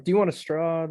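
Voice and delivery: lightly voiced sweet employee; sweet barista. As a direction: imitate an eager-to-please server. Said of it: "always so sweet about it".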